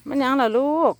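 cooing call. Real, not acted. Calling to a young animal.

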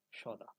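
সদা said 'shoda', short and everyday; Bengali pronunciation. Shown as a demonstration. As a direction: say সদা with a 'sh', in two syllables. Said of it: "বাংলায় উচ্চারণ আমরা সদা করে থাকি". (সদা, বাংলা উচ্চারণে)

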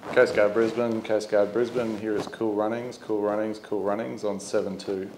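skipper hailing the Coast Guard on VHF, by the book; radio call demo. Shown as a demonstration. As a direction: call it in like a skipper on channel seven two. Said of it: "we're gonna demonstrate a radio call".

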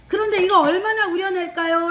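normal talking voice

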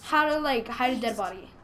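high, drawn-out vlogger parody; mock selfie greeting. Player posing beside a body, slow high mock vlogger voice. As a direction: stretch it out like posting for followers.

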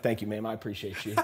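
lightly imitated polite Southern cook; Southern accent. Cook thanking a diner, imitated Southern accent. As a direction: give thanks with a Southern lilt. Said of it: "with this thick Southern accent".

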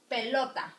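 "pelota" with the middle "lo" stressed; teacher's clear model of "pelota", punching the middle syllable; stress on second syllable. Shown as a demonstration. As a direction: lean on LO in "pelota". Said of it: "It sounds in lota".

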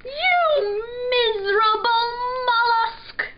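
very high, loud princely outrage; indignant insult. A narrator's reading. Prince trading insults with the pirate, indignant. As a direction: hurl it like an affronted royal.

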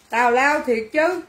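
slow words breaking into laughter; amused, dragged out into a giggle; amused laughing. Real, not acted. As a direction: say it through a laugh. Cracks up at silly customer.

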